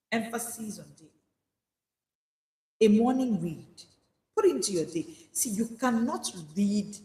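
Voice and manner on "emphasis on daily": quiet echo of Emphasis on daily; soft repeat. Shown as a demonstration. Preacher repeating the stress, softer. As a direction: let it settle softly.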